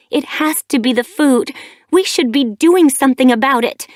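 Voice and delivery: grieving mate's furious accusation; angry. A narrator's reading. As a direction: lash out at the one to blame, rising. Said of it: "Anger flashed in her eyes".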